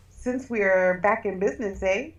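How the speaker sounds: light Scottish brogue, rolling the r; a hint of a Scottish brogue on business. Shown as a demonstration. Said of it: "That was my Scottish brogue".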